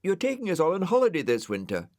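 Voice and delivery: fast, high blurt; the snail blurting out bad news to the dog; very quickly. A narrator's reading. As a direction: rush it out all in one breath. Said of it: "he said very quickly".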